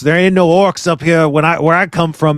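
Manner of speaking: a hint of a homesick, griping traveller; complaining Middle Earth guy. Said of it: "I'm doing an impression of a guy in Middle Earth".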